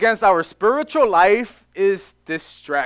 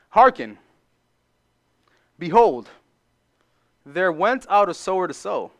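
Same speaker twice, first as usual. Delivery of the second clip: scripture reading. Acted.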